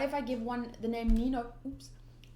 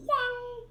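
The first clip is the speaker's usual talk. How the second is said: sound effect; 13 semitones higher, 4 dB louder than usual. Shown as a demonstration. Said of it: "No, wait, that's a more like a".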